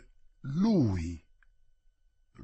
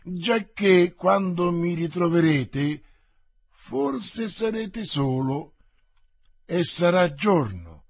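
mocking; 4 dB louder than usual. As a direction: tease them with a jaunty lift. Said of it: "rispose burlando il guascone".

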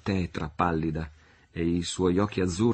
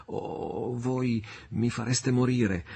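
breathless plea; 5 semitones higher, much slower than usual. Acted. Marianna pleading for news.

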